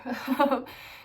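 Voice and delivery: short surprised laugh; amused laugh. Real, not acted. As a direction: laugh at the cat. Laughing at the cat.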